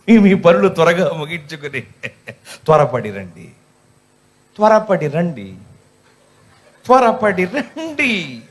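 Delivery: mock announcement, last call drawn out slow; church meeting announcer. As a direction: parody the announcer, stretching the final call. (ప్రకటనను సాగదీస్తూ వెక్కిరింపు)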